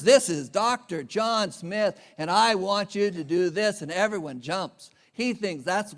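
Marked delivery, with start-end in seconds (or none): 0.0-3.8 slow, pompous self-announcement; lightly mocked bossy doctor; commanding doctor. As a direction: play the doctor who expects everyone to jump. Doctor commanding hospital staff.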